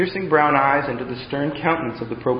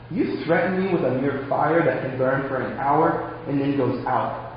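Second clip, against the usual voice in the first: softer, calm and assured; joyful confidence; 6 dB quieter than usual. Acted. Old prisoner calmly answering the threatening proconsul, soft and sure. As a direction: answer with quiet joy, no fear. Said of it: "beaming with joy and confidence".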